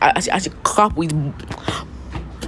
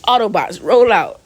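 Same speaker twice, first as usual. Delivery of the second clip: higher-pitched playful rallying cry; mock battle call; 5 semitones higher, 3 dB louder than usual. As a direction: call the troops out, hammed-up. Quotes the Transformers battle call.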